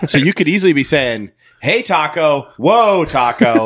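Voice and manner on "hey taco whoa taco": higher, slow, drawn-out call; mock calling out. Podcaster joking that bears don't know English, mock calling out. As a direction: pretend to hail an animal.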